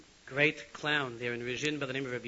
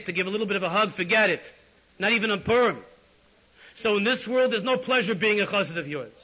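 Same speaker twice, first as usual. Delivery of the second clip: higher and louder, building to a near shout; impassioned rebuke; 7 semitones higher, 10 dB louder than usual. Retold or imitated. Yitzchak rebukes the Rebbe before the Chassidim, building fervent shout. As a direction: lay it into the Rebbe with rising fervour.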